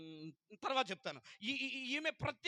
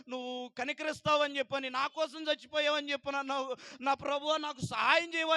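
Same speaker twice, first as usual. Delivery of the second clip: pleading with God, rising louder at the end; a retold crying plea that builds to a louder cry for help; tearful pleading prayer; 3 semitones higher, 4 dB louder than usual. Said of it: "అని చెప్పని ఏడుస్తూ ప్రార్థన". (దేవుణ్ణి వేడుకుంటూ ఏడుపుతో ప్రార్థన)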